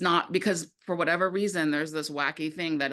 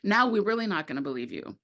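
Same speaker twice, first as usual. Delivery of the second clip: incredulous mock quote; 5 semitones higher than usual. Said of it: "They're like".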